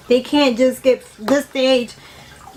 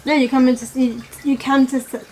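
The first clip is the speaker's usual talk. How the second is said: stuttering. Real, not acted. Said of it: "I'm stuttering".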